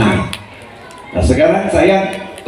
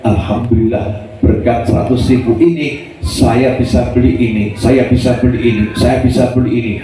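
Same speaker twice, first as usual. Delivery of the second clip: happy; 5 semitones lower than usual. Retold or imitated. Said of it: "Dengan senyum dia berkata".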